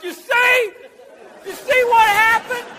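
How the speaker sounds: high, drawn-out redneck I-told-you-so; crowing redneck. Acted. Rednecks reacting to the president's failure, high mock crowing.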